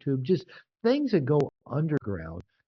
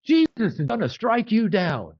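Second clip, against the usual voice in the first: mock preacher; 8 semitones higher, 5 dB louder than usual. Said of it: "and he goes".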